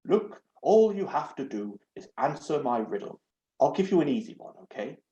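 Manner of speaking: a prim, fussy talking doorknob; lightly voiced haughty door knob. Doorknob voice held.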